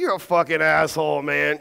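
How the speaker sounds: playful, buddy-to-buddy jab; friendly teasing. Shown as a demonstration. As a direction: say it like a joke between friends. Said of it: "you see the difference?".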